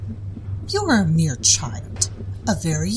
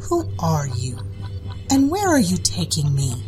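demanding. Acted. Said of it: "the woman demanded".

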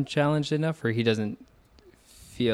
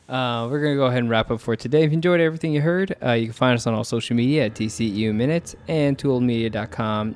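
quick, lightly read sign-off; podcast outro; faster than usual. Acted. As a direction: rattle off the outro fast.

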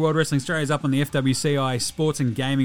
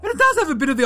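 a cheeky Aussie larrikin with a higher voice; bogan character Delhi; 4 semitones higher than usual. Acted. Delhi does his pop culture review, cheeky larrikin voice. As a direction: play him like a mouthy mate down the pub.

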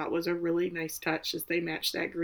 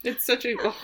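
heartbroken; 6 semitones higher, 6 dB louder than usual. Real, not acted. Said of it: "Breaks my heart".

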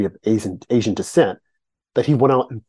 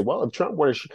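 little Southern voice; 3 semitones higher, 5 dB quieter, faster than usual. Retold or imitated. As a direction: lightly mimic Jeff Sessions with a small Southern voice. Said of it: "in this little Southern voice, small voice".

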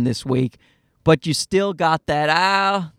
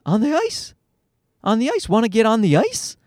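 put-on higher, hopeful kid question; childlike rising request; toddler asking; 4 semitones higher than usual. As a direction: imitate a small boy pleading to join in. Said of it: "And he's like".

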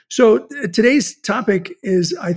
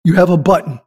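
amazed exclamation; 5 dB louder than usual. Retold or imitated. Retelling an amazed reaction.

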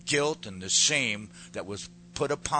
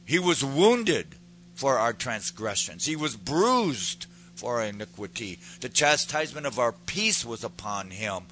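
preached scripture; 4 dB louder than usual. Acted. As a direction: lean on every word for the congregation. Preaching scripture, slow and loud.

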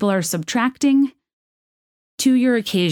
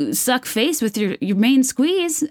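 1940s radio announcer; 6 semitones higher, slower than usual. Acted. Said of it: "I am a nineteen forties radio announcer".

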